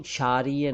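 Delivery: क्षारीय said as "shariya", no k; wrong sh onset. Shown as a demonstration. Teacher rejecting second mistake: क्षारीय as "shariya". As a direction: say क्षारीय starting with bare sh. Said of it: "क्षारीय नहीं".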